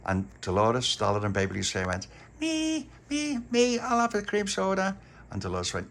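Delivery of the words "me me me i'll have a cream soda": very high, eager me me me; eager clamour. A narrator's reading. The girls clamouring for cream soda, very high.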